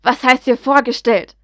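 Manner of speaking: loud angry demand, falling hard at the end; furious outburst. Acted. Lucius rages at Draco over the Muggle girl, loud and furious. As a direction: hammer out the question in fury. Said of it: "brauste Lucius auf".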